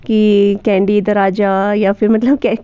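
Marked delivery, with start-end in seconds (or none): 0.6-1.7 calling the pet. Shown as a demonstration. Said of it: "किस तरह से उसको बोल रही हूँ".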